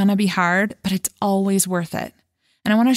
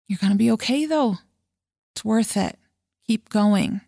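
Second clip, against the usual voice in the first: gentle reassurance. Retold or imitated. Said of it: "remind her that it was normal".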